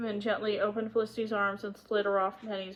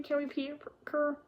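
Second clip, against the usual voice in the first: high, pleading little questions; imploring young girl; begging; 4 semitones higher than usual. A narrator's reading. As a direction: plead hopefully with your father. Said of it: "begged Felicity".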